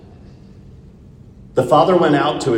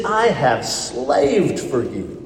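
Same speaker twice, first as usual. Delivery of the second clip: harsh complaint; much slower than usual. Retold or imitated. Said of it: "it's a really harsh word".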